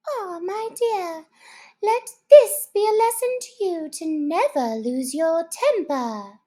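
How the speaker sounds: moralise to your daughter; old mother crab. Acted. Old crab lecturing her daughter, high and preachy.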